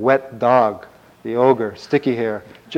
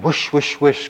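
whooshing crows rushing past; imitated whoosh of crows' wings; 4 semitones higher, 4 dB louder than usual. A narrator's reading. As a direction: make quick swooping wing noises. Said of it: "crows would fly in front of him".

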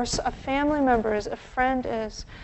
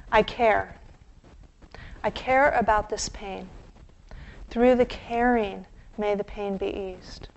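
caring phrases. Shown as a demonstration. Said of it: "These are the phrases I like to use".

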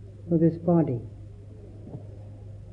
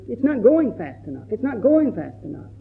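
higher, fretful mock worry; impatient inner voice; 4 semitones higher than usual. Teacher mimics students' impatient inner voice, raised and fretful. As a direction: play the mind that can't wait. Voicing anxious meditator's inner voice.

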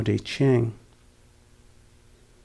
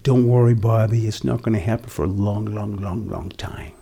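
kind reassurance. Retold or imitated. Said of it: "very kindly and lovingly said".

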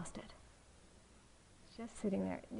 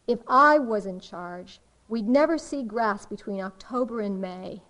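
mildly irritated retelling of a cartoon kid; 6 dB louder than usual. Retelling Calvin's winter complaint to listeners, mildly irritated. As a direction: grumble in mock irritation, leaning on the first words. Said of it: "he's very irritated, and he said".

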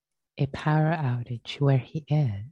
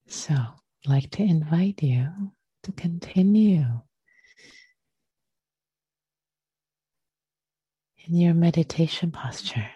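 unhurried meditation teacher, leaving long pauses; guided meditation. Real, not acted. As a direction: gently guide them into the breath, phrase by phrase.

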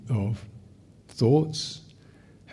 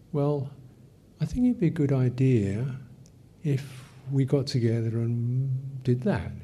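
negotiating tone; 3 semitones higher than usual. Shown as a demonstration. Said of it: "the tonality is a lot more negotiating".

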